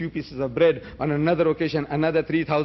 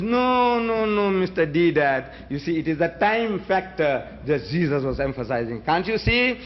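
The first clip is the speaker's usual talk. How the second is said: opponent voiced. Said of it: "he says".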